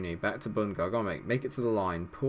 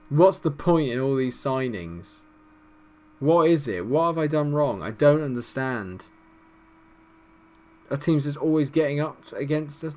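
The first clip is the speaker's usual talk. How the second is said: exasperated rant; 5 semitones higher, 5 dB louder than usual. Real, not acted. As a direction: plead with the game in disbelief. Despairing rant after conceding.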